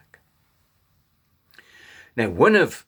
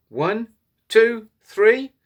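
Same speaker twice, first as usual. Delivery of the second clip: counting; 9 semitones higher, 5 dB louder, much slower than usual. Shown as a demonstration. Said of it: "can you count to three".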